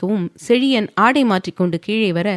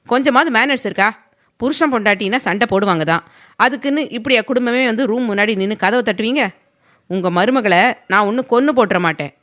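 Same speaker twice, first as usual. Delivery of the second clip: raised, indignant telling-off; a touch of heated anger; angry; 3 semitones higher, 3 dB louder than usual. Acted. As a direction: scold the family at the door. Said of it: "கோபமாக கூறினான்".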